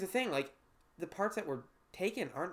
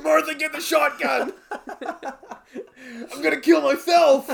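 anger turning to laughter; 12 semitones higher, 13 dB louder than usual. Pretend. The farmer voiced, shouting, then laughing.

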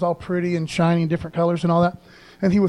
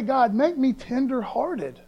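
modeled tender prayer; 3 semitones higher than usual. Shown as a demonstration. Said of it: "You know, pray".

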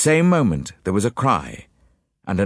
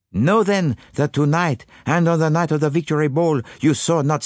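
Poirot revealing; 3 semitones higher than usual. Acted. Detective tells the witnesses they are wrong, dramatic reveal. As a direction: draw out the revelation in a French accent.

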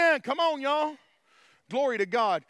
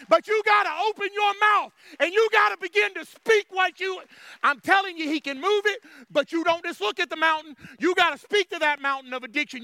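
raised, driving exhortation; urgent preaching; 5 semitones higher, 5 dB louder than usual. Real, not acted. Preacher urging people to speak to their mountain, urgent preaching. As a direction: urge them hard, without letting up.

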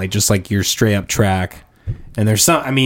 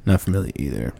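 low, dismissive admission; 5 semitones lower, 3 dB quieter than usual. Real, not acted. Interviewer admitting not knowing the artist, low and dismissive. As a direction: brush the name off, pitched low. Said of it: "Why'd you have to say it like that".

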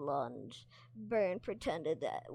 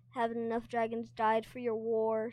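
snarled; 4 semitones higher, 5 dB louder than usual. Acted. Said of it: "snarled Heavy Tur".

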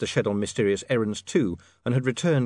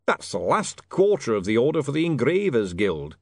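pointed remark to the room; announcing to nobody; 3 semitones higher, 4 dB louder than usual. A narrator's reading. Harry hints about the unguarded cart, pointedly. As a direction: drop a loud hint to the world. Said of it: "to the world in general".

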